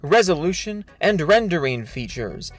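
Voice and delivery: overwrought, mock-solemn reading of a statement; dramatic reading. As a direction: read it like a grand, self-important speech. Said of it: "This is a dramatic reading of his thread".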